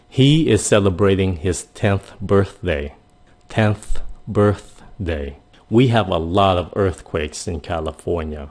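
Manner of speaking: slow, deliberate sentences with a clear th; slow teaching read. Shown as a demonstration. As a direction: spell out each word slowly for learners. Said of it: "phát âm kế". (đọc chậm, rõ từng chữ)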